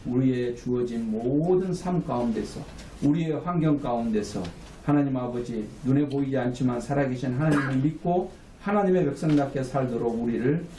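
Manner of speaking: measured pastoral prayer in even phrases; steady, level-toned praying; public prayer. Real, not acted. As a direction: lead the congregation in closing prayer. Leads the closing prayer.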